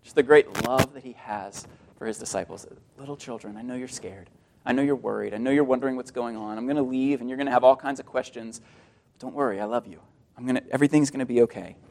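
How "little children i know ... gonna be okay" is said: put-on low, soft and tender to scared children; soft reassuring voice, lower and quieter; tender, soft-spoken Jesus. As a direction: comfort frightened little ones gently. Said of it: "the tenderness there in his voice".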